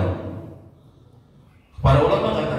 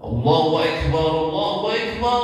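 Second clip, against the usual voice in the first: Allahu Akbar in a Turkish style, the second one higher; 4 semitones higher than usual. Retold or imitated. Teacher imitates the Turkish way of saying Allahu Akbar. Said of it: "ikut-ikutan orang Turki".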